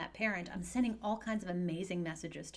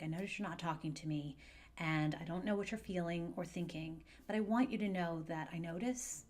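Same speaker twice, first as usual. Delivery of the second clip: gentle and caring. Shown as a demonstration. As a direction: say it gently so the child feels seen. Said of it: "might sound something like".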